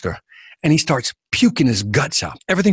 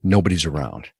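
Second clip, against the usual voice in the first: storytelling texture demo; 8 semitones lower, 4 dB quieter than usual. Shown as a demonstration. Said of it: "like this, for example".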